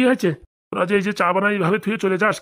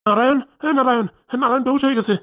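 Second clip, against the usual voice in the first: frantic cry; 4 semitones higher than usual. Acted. Uncle frantic over the fainted friend.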